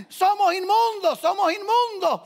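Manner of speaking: high, loud lepers' cry; shouted warning. Acted. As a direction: shout it out as an outcast's required warning. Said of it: "tenían que gritar".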